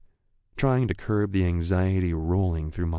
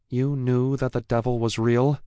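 accusing; 6 semitones higher, 4 dB louder than usual. Acted. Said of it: "brows bent in accusation".

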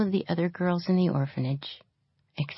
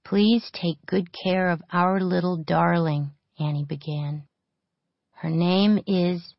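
reading aloud; 3 semitones higher, slower than usual. A narrator's reading.

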